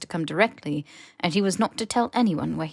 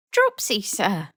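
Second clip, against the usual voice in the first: squeaky house elf; 3 semitones higher, 5 dB louder, slower than usual. Acted. Elf introduces itself.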